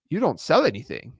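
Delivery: barely-there imitation of Sam Ovens's accent, close to own voice; a faint, failed stab at his accent. Quoting the Skool CEO's question with a weak try at his accent. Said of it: "I can't say his accent right".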